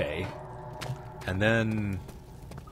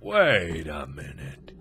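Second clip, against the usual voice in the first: mock realization; 6 semitones lower, much slower than usual. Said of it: "and you're just now thinking, like".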